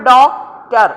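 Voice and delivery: ഡോക്ടർ with the first syllable DOC stressed. Shown as a demonstration. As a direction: hit DOC in ഡോക്ടർ, a little slow. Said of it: "ഡിയുടെ മേളിലാണ് stress വരാനുള്ളത്".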